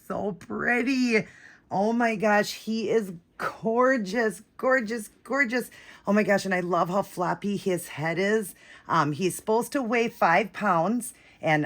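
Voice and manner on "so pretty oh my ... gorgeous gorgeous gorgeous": gushing. Real, not acted. Gushing over the doll.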